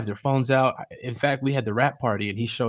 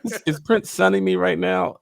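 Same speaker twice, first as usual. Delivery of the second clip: incredulous; 7 semitones higher, 3 dB louder than usual. Retold or imitated. Retold disbelief.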